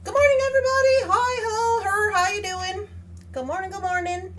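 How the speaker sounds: high, loud and quick good morning; excited greeting. Real, not acted. Welcoming viewers back after settling the cat, loud and excited. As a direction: throw the greeting out to the chat.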